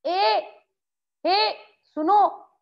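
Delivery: high, loud call across a distance. Shown as a demonstration. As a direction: hail someone far off. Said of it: "किसी को बुलाने के लिए".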